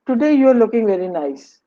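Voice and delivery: "Today you are looking very nice" said as a genuine compliment; mean it kindly; sincere compliment. Shown as a demonstration. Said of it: "is a kind of a compliment".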